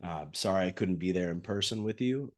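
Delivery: husky from a cold; hoarse voice. Real, not acted. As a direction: talk through a head cold, husky. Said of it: "if I sound like a husky, husky voiced radio announcer".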